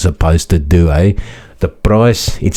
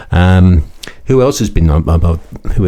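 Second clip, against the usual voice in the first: stumbling, stuttering start. Real, not acted. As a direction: trip over the words, stuttering. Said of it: "I was stuttering for a moment".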